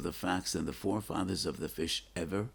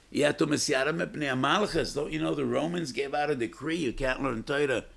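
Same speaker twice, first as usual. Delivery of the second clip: urgent warning; 8 semitones higher, 4 dB louder than usual. Acted. Acting Pappos's warning to Rabbi Akiva.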